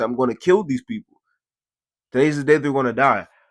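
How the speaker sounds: play-acted tearful weeping through the words. Retelling own words while crying in grandfather's basement: imitating own past crying. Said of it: "I'm crying in my, in my grandfather's basement".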